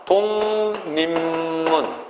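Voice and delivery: 독립문 said very slowly as "동님문"; drawn-out teacher's demo of 독립문 as "동님문"; correct pronunciation demo. Shown as a demonstration. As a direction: stretch each syllable of 독립문, all nasals: dong-nim-mun. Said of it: "어떻게 발음해야 되죠".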